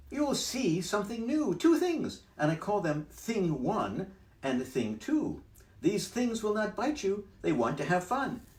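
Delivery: high, bouncy cheeky cat; cat's voice. Acted. Cat in the hat teasing the fish, high and loud. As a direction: brush off the fish, playful.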